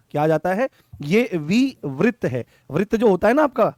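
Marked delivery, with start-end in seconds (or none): 1.0-2.5 slow dictation. Shown as a demonstration. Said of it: "dictating term slowly".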